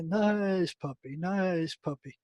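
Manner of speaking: slow, soft coaxing to a biting dog; gently calm the animal, drawing each word out; slow murmured "nice puppy", a touch of mock sweetness; soothing the dog. Inmate soothes dog biting him.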